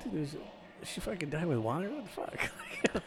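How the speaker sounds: hammed-up baffled soldier. Soldier voiced in retelling.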